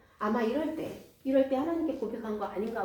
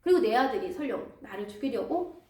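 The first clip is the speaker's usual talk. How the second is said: raised, accusing lament; bitter complaint; 2 semitones higher, 3 dB louder than usual. Acted. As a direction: scold them for betraying him. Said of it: "막 신세한탄을 하면서".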